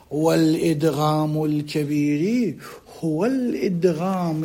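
slow, drawn-out dictation; measured classical Arabic dictation. Real, not acted. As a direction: read it out slowly for students to write, stretching the words. Dictates definition to students writing it.

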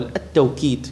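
"التوكيد" said at-tawkid, with a w glide; pronounced with waw. Shown as a demonstration. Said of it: "بالواو".

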